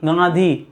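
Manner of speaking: गांधी with a plain n before dhi; सही उच्चारण गांधी. Shown as a demonstration. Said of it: "गांधी पढ़ते हैं". (गांधी, साफ़ न के साथ)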